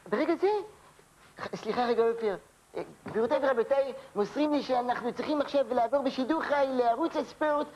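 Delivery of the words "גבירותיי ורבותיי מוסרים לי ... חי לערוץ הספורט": measured newsreader delivering a breaking item; news bulletin. Acted. Anchor breaks in with a breaking news bulletin. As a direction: read it like live breaking news.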